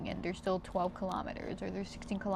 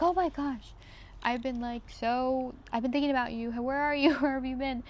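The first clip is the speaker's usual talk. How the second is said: excited greeting; 4 semitones higher, 3 dB louder than usual. Retold or imitated. Friends greeting her, excited.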